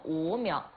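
echoed 鹅苗 for 禾苗, no h; Changsha pronunciation. Shown as a demonstration. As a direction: repeat 鹅苗 the Changsha way. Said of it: "长沙话就斗鹅苗". (学着用长沙话说“鹅苗”)

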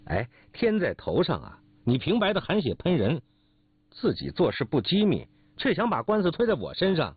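rising, aggrieved protest of innocence; acted indignation climbing in pitch; indignant quarrelling. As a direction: argue back as if slandered. 王大嫂起身争吵辩白.

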